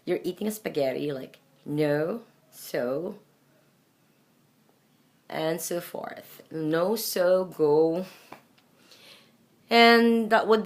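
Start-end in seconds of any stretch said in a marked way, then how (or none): 1.7-3.2 no, so as full long O words. Shown as a demonstration. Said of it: "it should be pronounced like". 6.5-8.1 No, so, go with a rounded "oh"; full round O in each of No, so, go; long O. Shown as a demonstration. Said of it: "like, form a circle".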